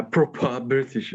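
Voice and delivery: slow mock-British echo; British accent. Echoing co-host's offer of proper British, mock British accent. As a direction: lightly imitate a proper British accent, drawn out. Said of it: "you can have my proper British accent".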